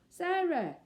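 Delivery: high, loud call. Acted. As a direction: call her in urgently. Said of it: "he called in a loud voice".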